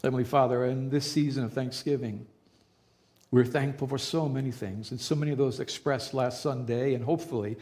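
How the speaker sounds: calm, reverent praying voice; pastor's prayer. Acted. Pastor leading the church in a calm, reverent prayer. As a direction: speak to God for the congregation.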